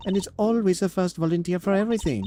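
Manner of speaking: put-on proud, doting French-accented warden; a prim warden with a French accent gushing over her family; lightly voiced French warden.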